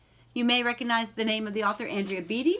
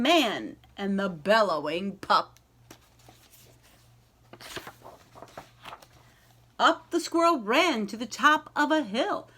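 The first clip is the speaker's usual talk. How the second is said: lively, sing-song picture-book reading; story narration. A narrator's reading. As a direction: read it like a bedtime rhyme to a class. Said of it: "reads picture book aloud".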